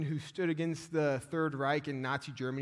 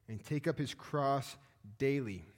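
"daily" set apart after a short pause; slow into the phrase, let "daily" stand alone; stress on DAILY. Shown as a demonstration. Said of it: "I put the emphasis on, on daily".

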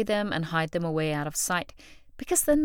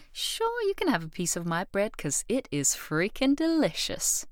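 giving the bread gladly, confident; confident offer; 3 semitones higher than usual. Retold or imitated. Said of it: "with confidence can say".

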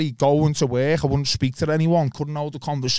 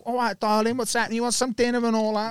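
lightly mimicked London accent, pitched up; 7 semitones higher than usual. London girlfriend offering dinner to her man, mimicked London accent. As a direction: put on a bit of London accent. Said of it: "The London accent".

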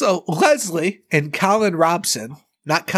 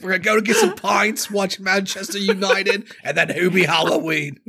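mock English accent; 5 semitones higher than usual. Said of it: "It's a little Australian".

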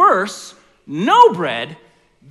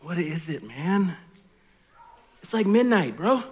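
groggy low friend woken up; sleepy friend; 3 semitones lower, 4 dB quieter than usual. Acted. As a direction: mumble like you were just woken. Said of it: "this is how the story goes".

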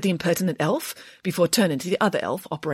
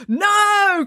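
high, loud, drawn-out shout; long, high chorused refusal; children's chorus; 14 semitones higher, 6 dB louder than usual. A narrator's reading. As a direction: cry it like a queue of children answering together. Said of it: "chorused the children in the queue".

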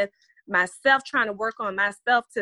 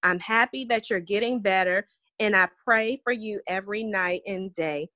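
put-on reading a child's letter. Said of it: "It says".

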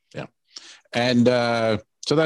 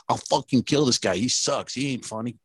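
lightly voiced good old boy heckler; a touch of indignant good old boy, slightly raised; 2 semitones higher than usual. Good old boys griping about Andy Kaufman, mildly indignant. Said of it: "These good old boys are like".

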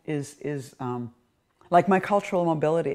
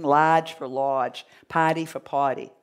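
Boston accent; 4 dB louder, slower than usual. Shown as a demonstration. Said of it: "my Boston accent".

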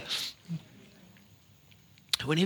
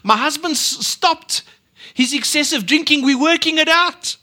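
tearful joy; 8 semitones higher, 4 dB louder than usual. Retold or imitated. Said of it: "tears in her eyes".

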